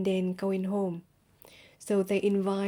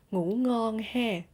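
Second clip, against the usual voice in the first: Southern accent with level "ha" at the end; Southern Vietnamese accent; 2 semitones higher, slower than usual. Shown as a demonstration. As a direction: say it Southern style, holding "ha" level. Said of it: "in Southern accent, you can say".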